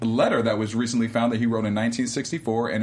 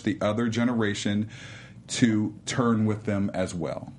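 deep chocolate voice. Shown as a demonstration. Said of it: "All right, chocolate voice".

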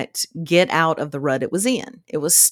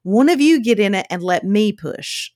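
calling out stop; 3 semitones higher than usual. Retold or imitated. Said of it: "And I was like".

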